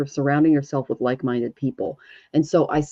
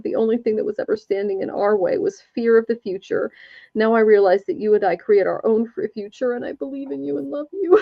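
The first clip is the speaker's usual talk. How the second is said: a hint of a mother's voice, pitched higher; channeling mom; 5 semitones higher than usual. Psychic relays the late mother's message to her son, lightly voiced. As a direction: pass on mom's words gently and a touch higher. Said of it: "So what does mom have to say?".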